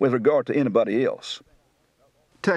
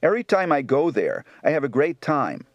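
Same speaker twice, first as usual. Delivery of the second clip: Baltimore accent. Shown as a demonstration.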